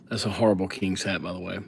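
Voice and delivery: real whispered aside, fast. Real, not acted. Streamer whispering a joke about his drawing to viewers, hushed. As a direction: whisper the joke under your breath.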